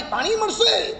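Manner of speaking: thirsty man calling through the window for water. Retold or imitated. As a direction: call "મળશે" up toward the window, pitch high. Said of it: "બારીમાંથી બૂમ પાડી".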